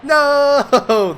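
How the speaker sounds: high, loud shocked outburst; sudden disbelief at losing; shocked cry. Real, not acted. Tournament loss, shocked cry.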